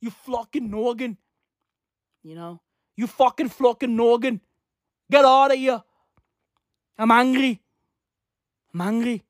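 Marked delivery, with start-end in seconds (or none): 0.0-1.1 botched mock-Irish insult; bad Irish accent. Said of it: "What accent is this?". 2.9-9.2 hammed-up fake Irish grumbling; bad Irish accent. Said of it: "What accent is this?".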